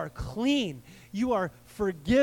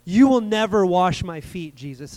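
defiant Peter refusal; 9 dB louder than usual. Retold or imitated. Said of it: "in classic Peter style".

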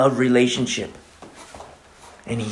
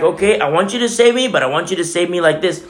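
mock demanding prayer; 4 semitones higher than usual.

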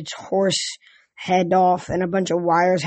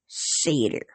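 grumpy god voice; 7 semitones lower, 6 dB quieter than usual. Acted. Grumpy god names Grover.

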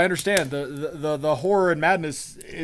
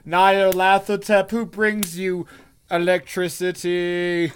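loud, slow booming deity; megalomaniac rant; 4 dB louder, slower than usual. Pretend. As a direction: proclaim it to cowering mortals. Mock god proclamation, Nyarlathotep.

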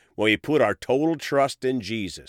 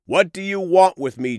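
lightly voiced cry, pitched higher; mildly raised shout; 6 semitones higher, 4 dB louder than usual. A narrator's reading. Possessed man crying out to Jesus, mildly raised shout. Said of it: "shouting at the top of his voice".

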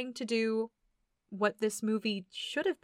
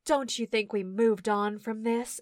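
mock grave kid. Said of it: "Literally, he's like".

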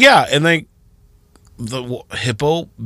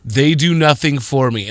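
defensive; 3 semitones higher than usual. Retold or imitated. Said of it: "apparently I'm insensitive".

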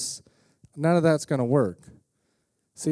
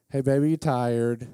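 cheesy pickup line; 4 semitones lower than usual. Retold or imitated. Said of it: "tell the horrible joke, the bad pickup line".

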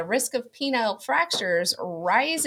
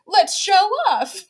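put-on kids hamming for camera; 7 semitones higher, 6 dB louder than usual. Kids mugging for dad's camera.

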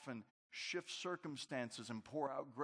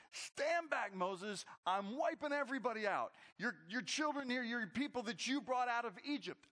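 voice of God; 9 semitones higher, 3 dB louder than usual. Acted. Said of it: "God comes to Moses and says".

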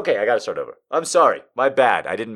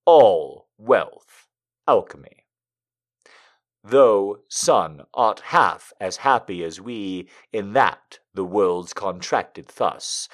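slow, dramatic poetry reading; poem reading; 4 dB louder, slower than usual. Acted. Streamer reading a Donne poem to chat, dramatic. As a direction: read the love poem with feeling.

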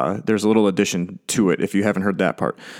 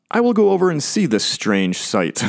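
higher-pitched Moses, wondering aloud; Moses marvelling; 7 semitones higher than usual. Acted. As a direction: act out Moses curious at a strange sight. Moses' thought, speaker doubts that's his voice.

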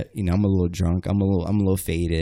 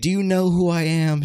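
imitating a challenge in raised pitch; retold threat; 8 semitones higher than usual. Sister choking him outside the bar, challenging. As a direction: throw down a mock threat, higher-pitched.

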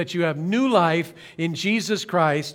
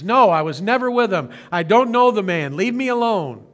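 a louder, mildly heated denial; angry denial; 3 semitones higher, 3 dB louder than usual. Retold or imitated. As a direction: shut him down, a touch of anger. Peter denying again.

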